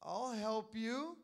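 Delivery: teasing, drawn-out sure; mock him with a playful drawl; funny tone. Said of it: "funny type of t-, tone".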